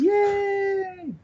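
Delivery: high shouted yay; cheer. Real, not acted. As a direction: cheer them on loudly. Cheering the brand getting verified.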